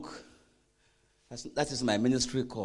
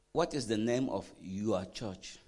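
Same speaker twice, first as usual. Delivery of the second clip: slow question, leaning on "your church"; deliberate weight on "your church" at the end; stress on YOUR CHURCH; 3 semitones lower, slower than usual. Shown as a demonstration. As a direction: draw out and emphasize "your church". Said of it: "I'm emphasizing the word your church".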